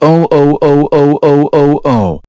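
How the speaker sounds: furious shouted oh oh oh; angry yelling. Acted. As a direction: yell it out in outrage. Furious parent discovers the blackout.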